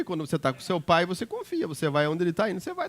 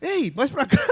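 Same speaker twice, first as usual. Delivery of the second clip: guiding the nurse; 8 semitones higher than usual. Retold or imitated. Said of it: "Aí eu falei".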